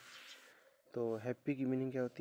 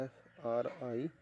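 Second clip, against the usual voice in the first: letters spaced out one by one; slow spelling; 4 dB quieter, slower than usual. Shown as a demonstration. Teacher spelling the word slowly for pupils. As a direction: spell it slowly so they can write. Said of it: "फ्रेंड के साथ आपको एस लगाना है".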